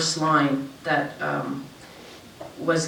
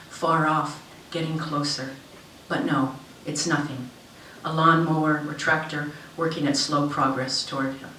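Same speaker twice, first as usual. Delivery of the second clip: measured literary reading with lifted phrase openings; story narration. A narrator's reading. Author reads short story to an audience, story narration. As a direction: read it aloud in deliberate, falling phrases.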